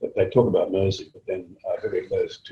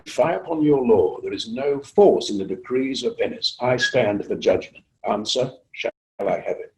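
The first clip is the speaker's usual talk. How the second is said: Shylock's speech; 3 semitones higher than usual. Acted. The speaker reciting Shylock's trial speech to the Zoom meeting, declaiming. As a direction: recite it like Shylock standing firm before the court. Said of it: "And Charles says".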